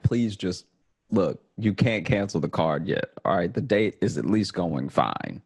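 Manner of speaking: half-hearted desperate begging, laughing at himself; mock pleading. Pleading with the bank agent.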